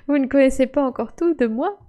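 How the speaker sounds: mustache twirling villain. Acted. Villain boast after machiavellian laugh.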